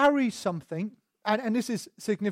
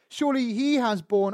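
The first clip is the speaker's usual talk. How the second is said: HE picked out, then read on; pointed emphasis on HE; stress on HE. Shown as a demonstration. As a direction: lean on "he" before "has borne". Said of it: "It's not someone else".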